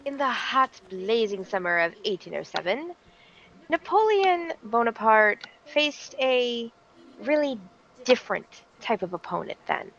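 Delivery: storyteller with suspenseful pauses; theatrical history storytelling; dramatic story narration. Acted. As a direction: spin it like a grand tale, pausing before reveals. Tells a history story to stream.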